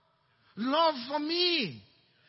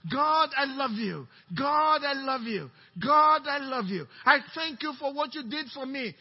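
fervent declaration to God; 3 dB louder than usual. Acted. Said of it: "Just keep telling him".

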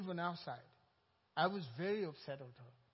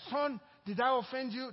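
worried mother; 7 semitones higher, 9 dB louder than usual. Acted. Mother's worried question voiced.

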